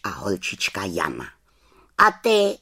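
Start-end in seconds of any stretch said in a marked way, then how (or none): 2.0-2.6 put-on high, loud boy's question; Tomáš asking. A narrator's reading. Tomáš asks the witch over his mug who she is. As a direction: ask her straight out like a curious boy. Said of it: "zeptal se Tomáš přes okraj svého hrnečku".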